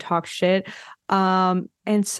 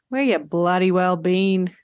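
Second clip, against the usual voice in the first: slow, hammed-up Australian accent; mock Australian accent. Shown as a demonstration. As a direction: butcher an Australian accent on purpose, drawn out. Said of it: "apologies to the nation of Australia for butchering your accent".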